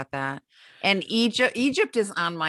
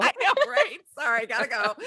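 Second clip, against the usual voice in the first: high, giggly pretend escape; hammed-up hasty goodbye, pitched up; mock fluster; 9 semitones higher than usual. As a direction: squeak a playful apology as you bolt. Playful excuse to leave, amid laughter.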